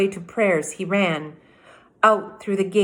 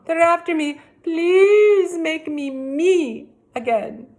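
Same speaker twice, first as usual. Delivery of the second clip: higher, louder desperate begging; pleading; 5 semitones higher, 4 dB louder than usual. Acted. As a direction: beg for help, rising panic. Anthony begs witch for help.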